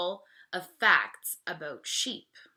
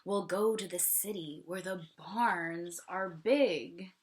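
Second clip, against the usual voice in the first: lightly voiced pig. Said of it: "squeals the old pig".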